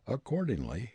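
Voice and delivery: ordinary delivery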